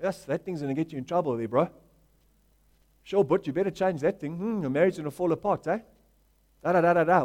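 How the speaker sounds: a hint of a smug, muttered put-down; mock the neighbour quietly and smugly; lightly voiced self-righteous gossip; snide judging tone. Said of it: "look down our noses to other people".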